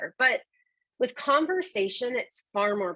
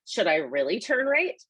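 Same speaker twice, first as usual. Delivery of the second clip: doubtful question, lifting at the end on "right"; wondering. Acted. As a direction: ask it unsure of the instruction. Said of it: "one's leaving you wondering".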